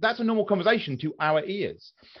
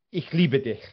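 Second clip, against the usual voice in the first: harsh German; 2 semitones lower than usual. Shown as a demonstration. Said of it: "sounds harsh".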